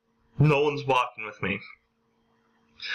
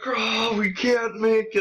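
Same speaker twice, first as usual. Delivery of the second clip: high-pitched mock slow-motion wail; hammed-up slow-motion despair; 9 semitones higher than usual. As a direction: drag the words out as if running in slow motion. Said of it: "across the street in slow motion".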